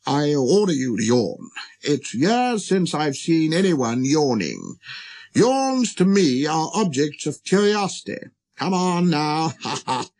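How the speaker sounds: lightly voiced pompous old monarch; king, indulgently commanding. King ordering the prince to yawn, lightly pompous and amused. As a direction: order it with amused royal curiosity.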